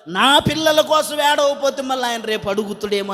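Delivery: half-hearted, faked weeping over the children; mock crying. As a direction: imitate a put-on wail in one long held tone. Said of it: "అది ఏడుపా". (దొంగ ఏడుపు అనుకరణ)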